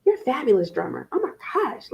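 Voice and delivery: fast gush rising high on oh my gosh; excited praise. Retold or imitated. Mom gushing over her son's drumming, fast and high. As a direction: hype up the little drummer. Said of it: "Josiah knows".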